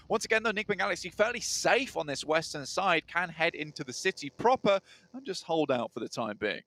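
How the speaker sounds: steady, flowing esports commentary; match caster keeping pace with the action; live play-by-play. Real, not acted. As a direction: narrate each move as it happens.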